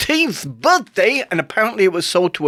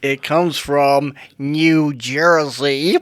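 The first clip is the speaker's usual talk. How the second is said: New Jersey accent; 6 semitones lower, much slower than usual. Shown as a demonstration. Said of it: "actors who speak like this".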